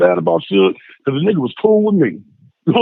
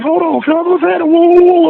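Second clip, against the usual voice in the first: much higher, calling out to stop the fight; retold shout; 10 semitones higher than usual. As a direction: yell to break it up. Twins stepping in.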